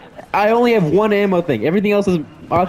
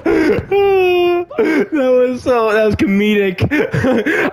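laughing; 4 semitones higher, much slower than usual. Real, not acted. Laughing after dying.

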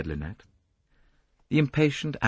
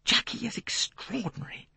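violently. Acted. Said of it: "Lynette said violently".

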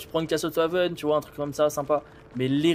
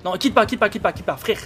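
urgent, louder pleading; 5 semitones higher, 4 dB louder than usual. Real, not acted. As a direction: beg loudly, don't go. Begging killer not to leave. (supplier fort, en urgence)

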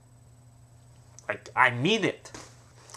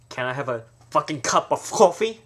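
coffee demanded, louder, fucking punched; rude, forceful coffee order; louder demanding; 5 dB louder than usual. Shown as a demonstration. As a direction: order it like a threat. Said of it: "you hear the difference".

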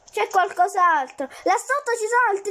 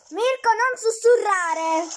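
slow, drawn-out complaint; exasperated scolding; slower than usual. Real, not acted. Gamer telling teammate to stop whispering, exasperated. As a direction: stretch it out, fed up.

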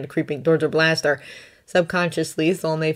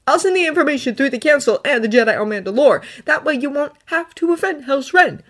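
put-on higher, earnest young Jedi voice; Thonne's voice; 8 semitones higher than usual. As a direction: lift the voice up for Thonne, sincere and pleading. Thonne offers.

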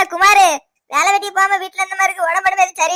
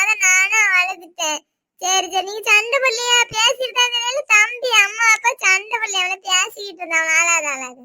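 put-on little child voice; 2 semitones higher than usual. Child explains to parents why they cried, small childlike voice. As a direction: draw the words out like a small, earnest child.

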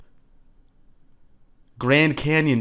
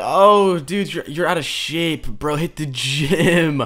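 mock commenter; 3 semitones higher, 3 dB louder, slower than usual. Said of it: "don't comment like".

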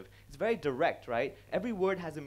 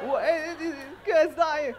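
high breaking laughter through the words; can't finish for laughing; 10 semitones higher, 6 dB louder than usual. Real, not acted. Comedian cracking up at the pun, laughing. Laughing at his own joke.

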